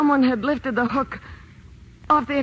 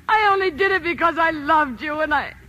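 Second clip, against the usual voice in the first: crying through the words; wife breaking down to her husband; tearful confession. Acted.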